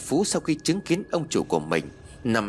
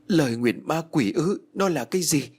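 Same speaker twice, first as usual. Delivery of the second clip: shocked question; 5 semitones higher than usual. Acted. Widow stunned hearing of the demon curse, alarmed. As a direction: echo the words in horror. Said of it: "nghe rõ câu nói mà thất kinh".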